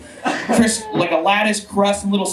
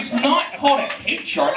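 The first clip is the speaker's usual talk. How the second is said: mock indignant; 5 semitones higher than usual. Real, not acted. Mock outrage at audience.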